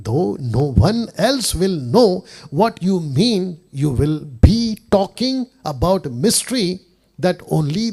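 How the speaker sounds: slow, weighty word-by-word reading; scripture reading. Acted. Preacher reading contemporary English version to listeners, slow and emphatic. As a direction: stretch each English phrase out deliberately.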